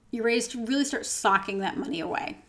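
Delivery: losing her voice, slightly strained; tired voice, starting to fade; voice giving out. Real, not acted. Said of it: "I can't believe I'm losing my voice too".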